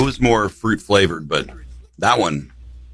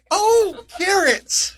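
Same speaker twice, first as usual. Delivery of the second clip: laughing; much slower than usual. Real, not acted. Laughing at the carrot candies.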